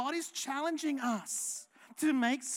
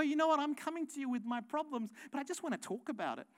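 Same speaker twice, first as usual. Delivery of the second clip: imitating a needy congregant; faster than usual. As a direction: mimic someone fishing for sympathy. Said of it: "sometimes people will go".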